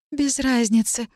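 ordinary delivery, nothing marked

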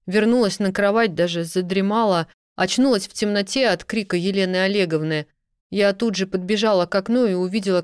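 flustered rambling. Acted. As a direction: tumble out a scared, confused account. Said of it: "сбиваясь".

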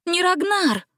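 gasp of surprise. A narrator's reading. Gretel shocked at the confession, gasping. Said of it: "ахнула Гретель".

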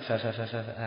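repeats فاء over and over like a stutterer; teacher mimics a stutterer repeating فاء, quiet; stuttering fa. Shown as a demonstration. Teacher demonstrates a stammer on فاء to students, softly. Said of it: "هكذا".

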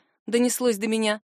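ordinary delivery

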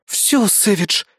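an enraged partner tearing into him; furious growl. A narrator's reading. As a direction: snarl at him with rising fury. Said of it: "Прорычала Фурия".

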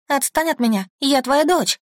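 high, desperate crying plea; sobbing nightmare plea. Acted. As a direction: cry out begging him to stop. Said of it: "рыдаю я".

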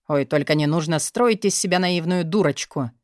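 offhand, dismissive cut-in; careless interruption. Acted. Boss dismissively interrupting his secretary, offhand. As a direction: brush her off mid-word. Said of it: "Небрежно перебил её начальник".

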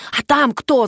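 ordinary delivery, nothing marked

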